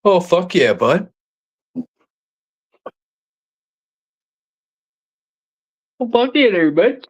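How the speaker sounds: channel Bubbles cheering the hockey game; sing-song high cheer like Bubbles. Acted. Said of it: "You remind me of Bubbles".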